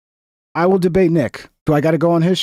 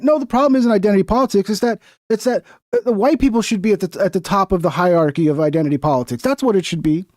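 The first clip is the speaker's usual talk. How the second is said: mocking quote. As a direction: parrot them with scorn, quick and pitched up. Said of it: "they went".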